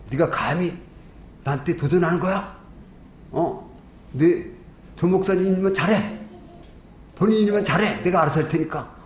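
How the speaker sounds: mild mock indignation, climbing toward the end; retold anger. Offended senior pastor answering the preacher's challenge, retold anger. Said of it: "이제 화가 난 거야".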